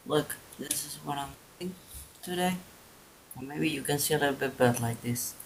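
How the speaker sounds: talking around a paintbrush in mouth; words slurred by a brush held in mouth. Real, not acted.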